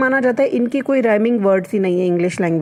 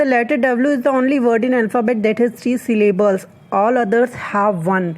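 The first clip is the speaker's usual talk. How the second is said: slow dictation; much slower than usual. Shown as a demonstration. Reads English fact slowly.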